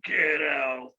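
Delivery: lightly voiced big voice, drawn out. Man retelling the voice from the washroom, lightly imitated big voice. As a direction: imitate a big voice with held words. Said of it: "this big voice saying".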